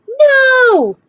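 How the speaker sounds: flat refusal, shouted; refusing shout. Acted. Max refusing the wild things, shouting no. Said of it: "And Max said".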